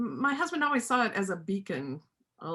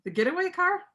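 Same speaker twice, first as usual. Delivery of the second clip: much higher, startled question; surprised; 11 semitones higher, 4 dB louder, faster than usual. Acted. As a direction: catch it in sudden surprise. Sudden realisation about the car.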